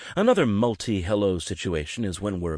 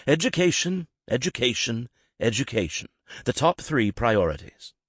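speech-maker delivery; 5 semitones higher than usual. Retold or imitated. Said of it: "Tony Blair, nineteen ninety-seven".

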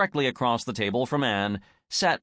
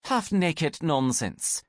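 sniffing dismissal; 4 semitones higher, slower than usual. Acted. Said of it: "Gretchen Richter sniffed".

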